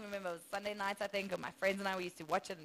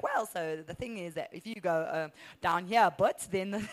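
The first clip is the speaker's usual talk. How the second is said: wandering mock-Irish accent; British accent sliding into tipsy Irish; drunk Irish accent; 2 semitones lower, 3 dB louder than usual. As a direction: fumble along in a botched Irish lilt. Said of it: "sounded more like a drunk Irish person".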